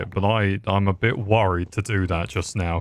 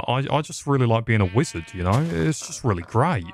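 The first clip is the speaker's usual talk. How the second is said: sarcastic. Real, not acted. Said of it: "can't sense sarcasm, that was a joke".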